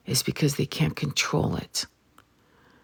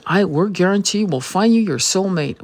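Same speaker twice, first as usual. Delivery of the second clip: higher, louder put-on salesperson voice; mock sales pitch; 5 semitones higher, 5 dB louder than usual. Coach promising a soulmate for money, mock sales pitch. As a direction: mimic an overblown guarantee, pitched up and loud.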